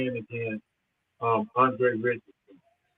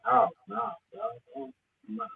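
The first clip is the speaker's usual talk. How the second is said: high-pitched, fading mock "no"; retold refusal; 12 semitones higher, 6 dB quieter, slower than usual. Player recalling being asked to play center, high-pitched refusal. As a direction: refuse in a high voice, trailing off softer. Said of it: "and I was like".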